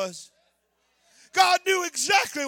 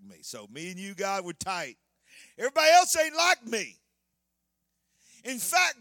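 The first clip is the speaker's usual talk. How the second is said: Elijah's boast; 2 semitones lower than usual. Acted. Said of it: "Larry Ragland's unauthorized translation of Elijah's words".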